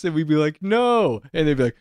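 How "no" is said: high, drawn reply to the stage; calling back. Retold or imitated. Imitating the audience answering the panelists, high call.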